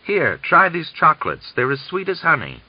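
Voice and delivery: high, loud, spiteful offer. Acted. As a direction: push the sweets on him with spite. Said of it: "he said spitefully".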